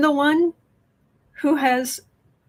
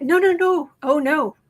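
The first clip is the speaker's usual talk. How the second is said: dismayed no; 5 semitones higher, 4 dB louder than usual. Real, not acted. Reacting in dismay.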